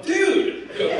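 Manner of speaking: high, loud call of disbelief; retold exasperation. Game maker catches the thief again, loudly exasperated. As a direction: confront him, half laughing. Confronts repeat thief in story.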